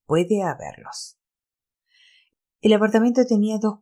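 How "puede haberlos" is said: slow, ominous prophetic voice; fortune teller. Acted. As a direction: draw it out like a seer. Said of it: "dijo Barbieri con voz de pitonisa".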